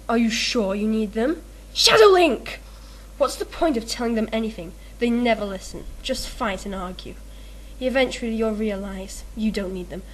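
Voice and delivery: lightly voiced Zelda manga dialogue, Shadow Link scene; manga characters read aloud. Reading a random manga page, lightly voiced characters. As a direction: read the manga lines as the characters, barely acted. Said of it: "I don't know if that's worthy of a voice actor".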